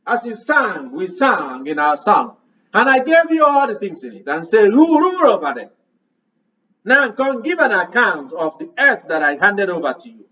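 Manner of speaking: voicing the Lord. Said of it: "the Lord will ask".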